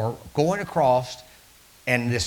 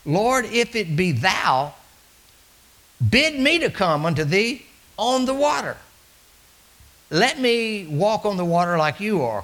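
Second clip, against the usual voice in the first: pleading Peter; 6 semitones higher, 4 dB louder than usual. Acted. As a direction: beg to be called out onto the water. Voicing Peter's plea to Jesus.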